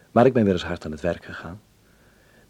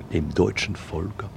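slow reading; much slower than usual. Acted. Reading the Reichstag inscription.

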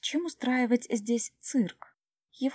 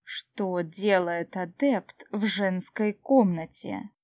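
cold brittle frosty whisper; slower than usual. Acted. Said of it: "ледяным голосом поинтересовался Клеарн".

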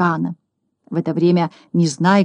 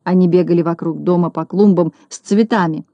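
usual speaking voice

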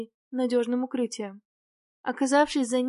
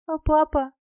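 put-on higher, louder plaintive child, sob only hinted; mildly tearful little girl's plea; child's sobbing question; 4 semitones higher, 7 dB louder than usual. A narrator's reading. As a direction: ask anxiously, on the edge of tears. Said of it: "Девочка всхлипнула".

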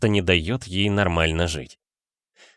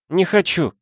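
put-on drunk woman; 10 semitones higher than usual. A narrator's reading. Drunk Dasha refusing.

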